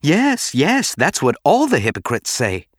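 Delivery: high, scornful retort; close to snarling. A narrator's reading. Padme retorting to Bail's excuse, near snarling. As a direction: jump high on the first yes, bitterly. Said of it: "close to snarling".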